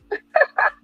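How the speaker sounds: a high burst of real laughter; sudden high laugh. Real, not acted. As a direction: laugh out at the memory. Laughs at own story.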